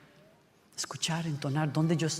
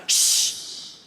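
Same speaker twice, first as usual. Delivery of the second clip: firm shushing sound; long shh; hushing shh. Shown as a demonstration. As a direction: silence them in one breath. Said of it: "pero funciona".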